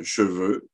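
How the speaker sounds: second "cheveu" squeezed to "ch'feu"; regional pronunciation. Shown as a demonstration. Lecturer showing regional speech, "cheveu" as "ch'feu". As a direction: swallow the first vowel of "cheveu". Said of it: "qui devient un cheveu".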